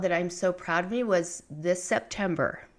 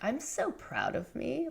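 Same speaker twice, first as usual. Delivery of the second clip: raised, mock-proud self-praise; hypothetical self-praise; 6 semitones higher, 6 dB quieter than usual. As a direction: toss it off lightly, as if she never would. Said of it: "have I ever stopped and been like".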